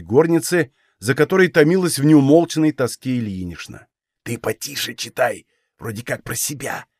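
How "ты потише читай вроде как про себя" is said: softer, almost under his breath; father hushing his daughter so the mother won't hear; hushed conspiratorial voice. A narrator's reading. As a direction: keep it secret from the mother. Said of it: "Он хитро подмигивал".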